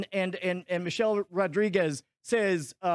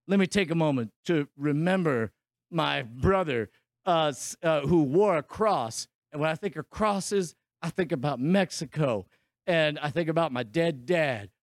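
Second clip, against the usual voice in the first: lower, gravelly-free mock tough guy; mock movie-star hero, lower; gruff action hero; 6 semitones lower than usual. Voicing the hero's monologue.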